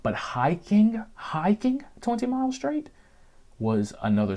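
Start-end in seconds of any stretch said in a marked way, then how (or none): 0.1-2.9 high squeak. Real, not acted. Emphasizing the hike's misery.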